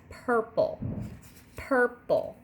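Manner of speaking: purple split slowly into pur-ple; syllable demo. Shown as a demonstration. Teacher to third graders, sounding out purple. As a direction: say purple in two clear beats, pur then ple. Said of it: "put your hand under your chin and you'll say purple".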